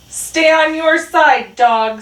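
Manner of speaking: loud, high, slow shout; calling out. A narrator's reading. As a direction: shout a warning across the yard. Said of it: "called to Dog".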